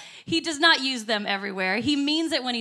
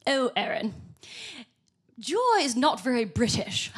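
lightly put-on British accent; mock a reserved British friend, in a British accent; terrible British accent. British friends objecting to joy talk, in a bad British accent. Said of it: "excuse the terrible British accent".

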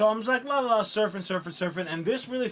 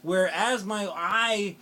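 laughing. Real, not acted. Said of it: "spit on myself".

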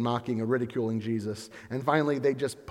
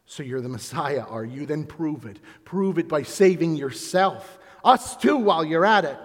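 scoffing; 3 dB louder than usual. Acted.

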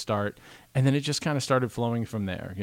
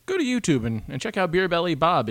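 upbeat announcer plug, higher; radio plug read; 6 semitones higher, 3 dB louder than usual. Retold or imitated. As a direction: pitch it like the usual on-air plug. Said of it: "So normally we say".

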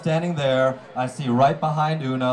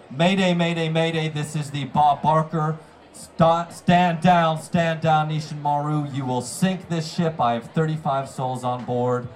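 urgent mayday call; 3 semitones higher than usual. Retold or imitated. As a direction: call it in like a real emergency. Retold distress call to ship.

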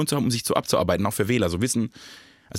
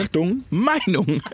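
jingle voice; 7 semitones higher, much slower than usual. Pretend. Repeating the mock jingle.

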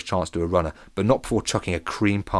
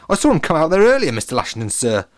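lightly voiced girl; 7 semitones higher, 7 dB louder than usual. A narrator's reading. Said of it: "said Gina".

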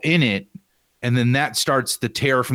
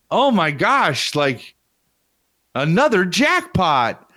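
slow, higher sultry purr; sultry narrator; 6 semitones higher, slower than usual. Retold or imitated. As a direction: purr it slowly, seductive. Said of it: "she says it, like, all sultry".

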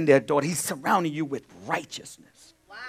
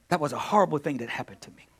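demo line; faster than usual. Shown as a demonstration. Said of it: "This is how you gotta talk in the kingdom".

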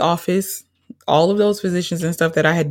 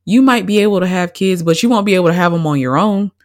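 quoting the doctor; 3 semitones higher, 3 dB louder than usual. Retold or imitated. Woman retelling her doctor's careful news about having kids. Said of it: "the second time she told me".

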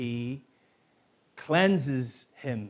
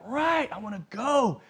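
eager volunteer; 8 semitones higher than usual. Retold or imitated. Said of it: "He's like".

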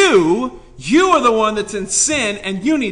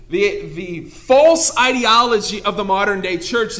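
usual speaking voice

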